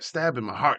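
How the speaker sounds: normal talking voice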